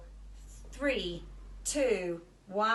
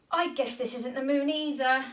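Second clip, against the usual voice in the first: spluttering; 4 semitones higher, 4 dB louder than usual. Acted. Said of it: "spluttered Molly".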